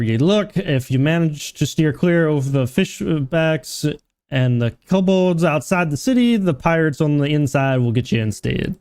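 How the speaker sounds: lightly voiced innkeeper with rustic accent; hint of a fantasy barkeep's accent; tavern keeper in dialect. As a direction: warn a newcomer as a dialect-speaking barkeep. Reads innkeeper's dialogue in dialect.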